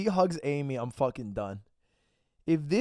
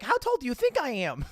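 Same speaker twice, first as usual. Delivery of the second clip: higher, mock-eager ask; mocking short person; 6 semitones higher, faster than usual. Streamer mocks short people asking their height, in a higher mock voice. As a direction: parody a short guy fishing for a guess. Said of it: "short people are like".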